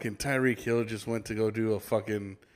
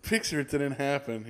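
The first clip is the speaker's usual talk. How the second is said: mock baffled quote; 3 semitones higher, 7 dB louder, slower than usual. Friend imitating S0's reaction.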